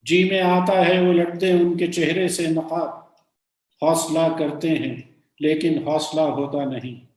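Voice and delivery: sustained, lilting Urdu verse; measured ghazal reading; poem recitation. Acted. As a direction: declaim the couplet, falling at each refrain. Repeats the couplet.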